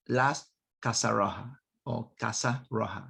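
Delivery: Spanish words in an English accent. Real, not acted. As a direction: say "Casa Roja" with English-accented sounds. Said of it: "said that with an English accent".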